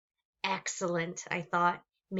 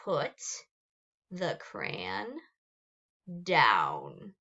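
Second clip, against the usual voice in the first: very deep, menacing monster growl; growled command; 5 semitones lower, much slower than usual. Acted. Gabe ordering Emma, deep growl. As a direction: drop the last word into a growl. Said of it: "he growled".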